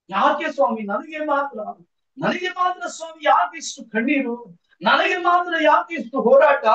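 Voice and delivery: acted lament, one question after another; anguished pleading. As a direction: plead as a worn-out believer demanding answers. Voicing believers' complaint to God.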